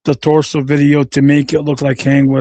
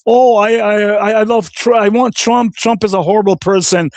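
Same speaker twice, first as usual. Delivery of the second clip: mocking imitation; 5 semitones higher than usual. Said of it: "These people are here talking about".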